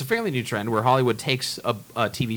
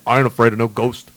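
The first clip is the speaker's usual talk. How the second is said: put-on a touch of a New York cab driver accent, a bit louder; heavy New York accent; 2 semitones lower, 5 dB louder than usual. Mocking the Dan Aykroyd cameo, New York accent. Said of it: "in a heavy New York accent".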